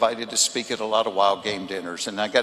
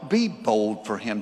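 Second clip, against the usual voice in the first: ordinary talk, nothing marked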